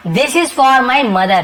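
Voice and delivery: very slow example sentence; slow teacher demo; slow dictation. Shown as a demonstration. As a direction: read it out slowly for learners. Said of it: "slow model sentence".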